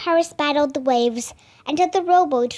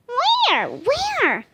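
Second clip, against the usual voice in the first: eager asking; 11 semitones higher, 3 dB louder than usual. A narrator's reading. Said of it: "Jack asked".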